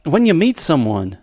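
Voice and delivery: put-on Australian accent sliding into Southern; slipping into Southern. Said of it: "now I'm slipping into Southern".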